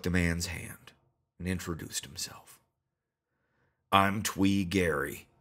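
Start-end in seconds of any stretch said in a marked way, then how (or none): 3.9-5.3 deep rumbly voice. Acted. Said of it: "he said in a deep, rumbly voice".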